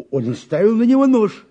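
sudden high, loud burst; blurting it out, reliving the moment; excited outburst. Acted. Witness to the investigator, reliving the knife attack, high and loud.

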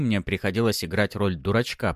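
usual speaking voice

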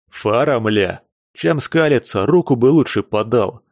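возмущённый окрик, громче к концу; возмущайся, требуя руку; возмущённо. Acted. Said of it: "возмутился Псих". (возмущённо)

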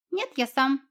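lightly voiced little fox, proud; proud squeak. Unseen fox answering the cat, proud squeak. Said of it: "гордо пискнул кто-то".

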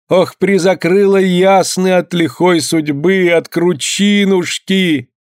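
high, slow, drawn-out keening for a drowned friend; grieving woman keening over the ice hole, slow high wail; wailing lament. A narrator's reading. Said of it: "надрывно заголосила".

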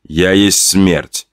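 low, slow, cold pronouncement; lightly voiced killer as death itself; menacing killer. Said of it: "killer declares himself death".

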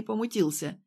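usual speaking voice

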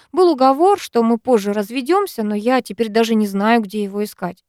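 plain reading voice

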